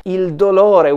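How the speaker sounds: "il dolore" said clearly in Italian, rolled r; modern Italian word. Shown as a demonstration. Teacher shows students the modern Italian word, in clear Italian. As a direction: voice "il dolore" as a native Italian would. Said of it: "In modern Italian, we would say".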